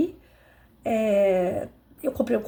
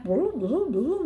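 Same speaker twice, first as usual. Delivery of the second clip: grumbling nonsense sounds under her breath; mock grumbling; 5 semitones higher, much slower than usual. Under the desk grumbling at tangled wires, mock grumbling. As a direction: grumble like she's fussing over wires. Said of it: "escutou eu resmungando".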